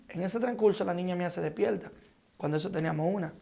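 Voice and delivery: ordinary talk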